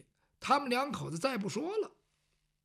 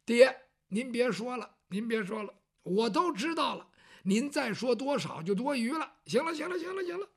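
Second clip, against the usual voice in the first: son cutting his father off; 5 semitones higher than usual. Acted.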